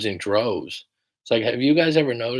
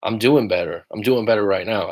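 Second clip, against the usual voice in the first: affirmation. Shown as a demonstration. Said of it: "say to yourself".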